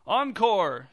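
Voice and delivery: high, loud call from the crowd; shouted. A narrator's reading. Director's husband calling to the actors on stage, shouted. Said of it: "shouted the director's husband".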